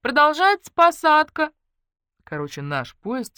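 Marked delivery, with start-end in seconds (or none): 0.0-1.5 slow, high, loud station announcer; drawn-out public address call; loudspeaker announcement. Acted. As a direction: boom it out over the platform speakers. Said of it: "из репродуктора сообщили".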